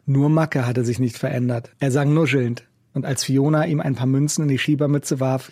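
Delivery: usual speaking voice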